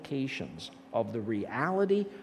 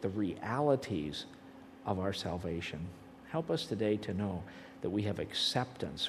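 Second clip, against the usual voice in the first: prayer; 4 semitones lower than usual. Acted. Praying over the class before lunch, a gentle prayer. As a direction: pray over the class, softening toward the end.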